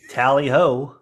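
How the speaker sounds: token British cheer; lightly put-on British accent; phoned-in British accent. Shown as a demonstration. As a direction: toss it off in stock British. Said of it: "if you're gonna phone it in".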